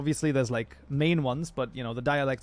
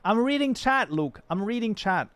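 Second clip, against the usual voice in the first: much higher and louder, fed up at being interrupted; exasperated protest; 7 semitones higher, 3 dB louder than usual. Real, not acted. Streamer protesting to Luke that he's reading chat, exasperated loud. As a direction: push back hard, you're busy reading chat.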